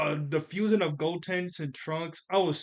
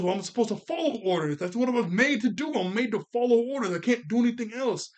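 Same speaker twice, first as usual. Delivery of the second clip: earnest android; 7 semitones higher, 3 dB louder than usual. Retold or imitated. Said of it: "He goes".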